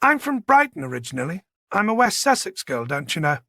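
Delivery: a hint of old-fashioned genteel manner; lightly voiced genteel woman. Voices Charlotte.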